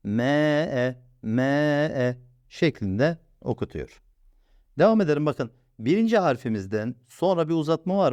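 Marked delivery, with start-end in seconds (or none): 0.0-2.2 M held one beat; lengthened. Shown as a demonstration. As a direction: stretch the M sound. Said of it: "bir elif miktarı uzatacak".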